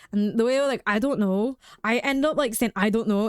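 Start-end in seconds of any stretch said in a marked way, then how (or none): 0.8-1.6 light imitation of a Scottish accent. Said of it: "like, somebody Scottish". 2.7-3.3 light imitation of a Scottish accent. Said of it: "in that, like, accent specifically".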